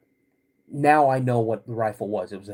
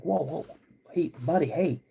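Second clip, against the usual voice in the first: retold soothing. Dad soothes his crying son.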